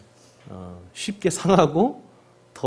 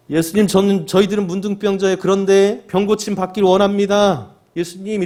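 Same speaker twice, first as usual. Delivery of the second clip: raised, high plea from afar; calling out; 7 semitones higher, 4 dB louder than usual. Acted. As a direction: plead for healing, calling across a distance. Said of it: "이렇게 외치고 있어요".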